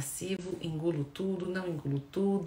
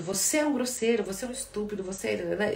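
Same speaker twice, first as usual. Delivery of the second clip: mild accusing. Shown as a demonstration. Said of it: "eu estou apontando para o outro".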